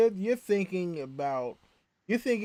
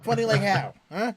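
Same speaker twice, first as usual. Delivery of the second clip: Joe Pesci; 4 semitones higher, 4 dB louder than usual. Retold or imitated. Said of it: "get that Joe Pesci going".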